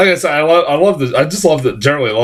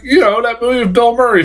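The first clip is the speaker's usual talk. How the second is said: mock guy; 11 semitones higher, faster than usual. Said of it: "He's like".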